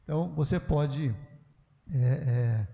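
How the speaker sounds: ordinary talk, nothing marked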